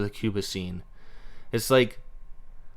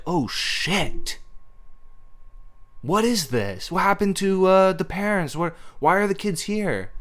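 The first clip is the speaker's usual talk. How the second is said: puzzled viewer; 7 semitones higher than usual. Retold or imitated. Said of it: "it's like".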